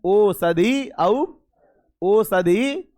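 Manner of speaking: "औषधि" said with a stressed, rising औ; model pronunciation. Shown as a demonstration. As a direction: lean on the औ in "औषधि" for the class to copy. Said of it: "ऐसा ही बोलना". ("औषधि" में औ पर ज़ोर)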